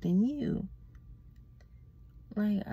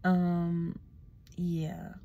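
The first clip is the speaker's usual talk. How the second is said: whisper; much slower than usual. Real, not acted. Sleepy goodbye to her followers, whispered. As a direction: murmur it like a goodnight secret. Sign-off to viewers.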